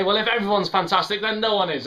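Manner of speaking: high, loud mock cynic; cynical objection. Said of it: "you can be cynical and say".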